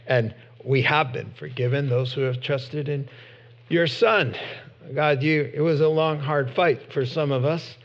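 pastor praying gently to close; closing prayer. Real, not acted.

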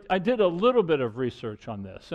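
"little" leaned on for emphasis; stress on little. Real, not acted. Preacher admitting to scant research, stress on "little". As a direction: make "little" stand out from the phrase. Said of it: "I want to emphasize the word little".

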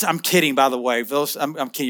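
a sheepish throwaway to the crowd; quiet aside. Real, not acted. Quiet aside after risky joke.

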